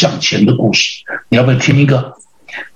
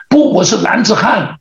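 higher, determined acted protest; proud retort, pitched up; defiant recruit; 6 semitones higher than usual. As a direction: stand your ground as a trainee. Recruit refusing to quit, acted.

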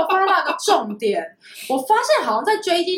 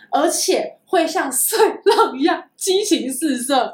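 voice cracking; slower than usual. Real, not acted. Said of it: "你破音了，再一次".

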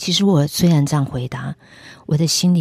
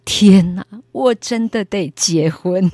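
loud cry then slow resigned words; mock dismay; 4 semitones higher, 5 dB louder, slower than usual. Realising she must marry, mock dismay. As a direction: wail it in comic despair. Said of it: "第二个大哭是".

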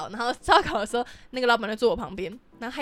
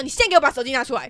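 a touch louder and quicker, commanding; retold order; 3 semitones higher, 5 dB louder, faster than usual. Ordering the boss to hand over his phone: firm fast command.

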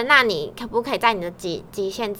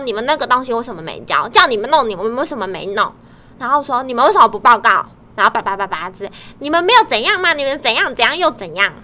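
boss scolding; 5 dB louder than usual. Retold or imitated. Imitating boss scolding the team.

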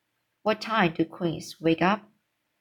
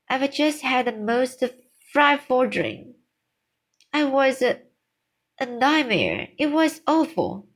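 higher, shaken and upset; distressed; 5 semitones higher than usual. Acted. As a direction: tell of the nightmare, shaken. Queen recounts a nightmare.

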